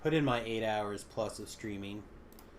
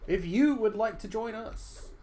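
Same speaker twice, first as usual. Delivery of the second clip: higher, slow put-on Australian accent that misses; slow it down and try the Australian accent again; second try at Australian accent; 9 semitones higher, 4 dB louder than usual. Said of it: "That's still not the voice I can do".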